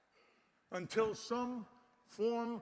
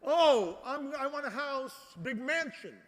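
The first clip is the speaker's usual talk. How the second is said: mock greedy whine; 4 semitones higher, 3 dB louder, slower than usual. Mocking greedy people again.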